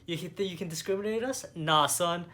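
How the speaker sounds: sassy mock rebuke, climbing to a loud, high finish; defiant boast, rising to a shout; mock Eleanor. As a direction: play the rich mother-in-law putting the clerk in his place. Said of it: "she's like".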